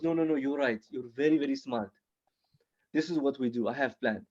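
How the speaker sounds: put-on lightly accented, conceding then plotting; foreign-accented friend laying out a plan; Ahmed. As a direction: agree earnestly in lightly accented English. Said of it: "kinda fresh off the boat".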